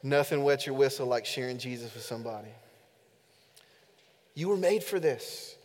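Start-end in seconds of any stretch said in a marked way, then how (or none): 0.0-2.5 low, softened imitation of an Alabamian accent. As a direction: repeat the mentor's saying in his Alabamian accent. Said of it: "in his thick Alabamian accent".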